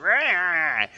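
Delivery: loud, high mock roar; grumpy creature roar. Player mimics the grumpy creature, mock roar. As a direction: imitate a grumpy creature roaring. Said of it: "He's all grumpy. He's like".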